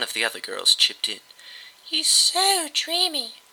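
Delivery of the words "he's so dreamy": high, very slow swoon; swooning fangirl. A narrator's reading. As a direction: sigh the words like lovesick. Fangirl swoons over idol.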